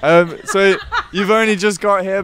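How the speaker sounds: laughing through the words. Real, not acted. Laughing at band's arrival.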